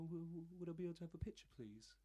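high, fast stammering request, starstruck; fast, high and stammering, lip quivering from nerves; nervous stammer. Retold or imitated. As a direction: stutter it out like a nervous fan meeting his hero. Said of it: "like my bottom lip going like this".

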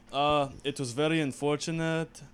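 lightly put-on Ukrainian accent; a hint of a Ukrainian accent, halting. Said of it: "That's more Ukrainian accent".

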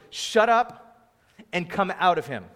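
retold command to get out, firmly voiced; stern command. Jesus ordering a demon out of a man, stern command.

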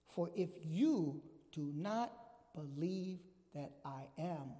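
slow, weighty pronouncement with long pauses; emphatic, grave warning. Acted. Jesus warning the religious people of his time, solemn emphasis. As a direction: let each phrase land slowly, easing down at the end. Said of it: "he emphasized this to them".

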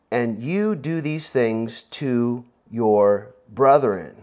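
slow, solemn Bible reading; scripture reading. Acted. Pastor reads Paul's words to the congregation, slow and solemn. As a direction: read the verse slowly, with weight.

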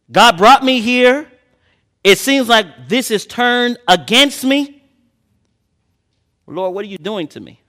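Elijah pleading, bewildered and exasperated; frustrated complaint. Acted. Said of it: "No, he's frustrated".

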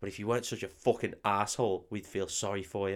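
low-key imitation of a whisper; softly voiced, confidential telling-off; retold whisper. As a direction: quietly lay it out, as if leaning in close. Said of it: "leans next to her and starts whispering".

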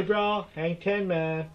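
lightly imitated Californian surfer accent; a hint of Cali surfer-bro accent; mock Cali bro. Teasing the co-host about sounding Cali, mock surfer accent. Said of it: "What are we, from Cali".

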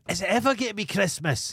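put-on high, whiny kid asking; a small kid pleading at Christmas; impatient child voice. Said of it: "I'm like".

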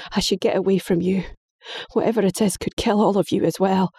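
fast, frantic warning; boy fleeing to protect his family; panicked. Acted. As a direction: rush it out in panic.

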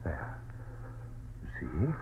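the doctor speaks softly at the bedside; hushed. Acted. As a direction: keep your voice down by the sleeping patient. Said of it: "Be very quiet".

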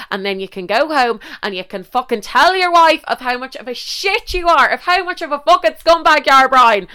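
livid rant. Retold or imitated. Woman furiously telling off the married man Brian. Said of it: "I was livid".

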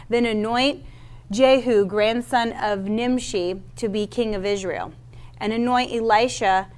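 lightly voiced steady Bible reading; scripture reading. Preacher reads scripture to his church, steady reading voice. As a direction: read the passage to the congregation, measured. Reads the Elijah passage aloud.

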